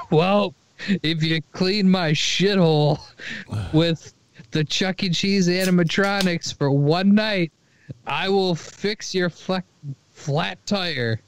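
lightly acted bargain from a shop owner; dude offering a deal. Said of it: "This dude shows up and says".

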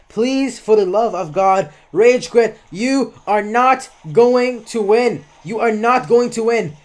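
plead, then spell out NOT GOING TO WIN slowly; emphatic exasperated plea. Real, not acted. Gamer urging a beaten opponent to quit, emphatic and exasperated.

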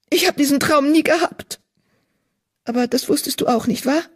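a troubled apprentice healer confessing; frightened young healer cat; young she-cat, distressed. A narrator's reading. Narrator voices young she-cat Mottenflügel.

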